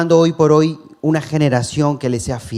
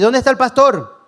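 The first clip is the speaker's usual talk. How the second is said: high, raised voice of surprised churchgoers; puzzled asking; 10 semitones higher, 4 dB louder than usual. Retold or imitated. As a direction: ask it as if the pastor went missing. Congregation asking for the pastor.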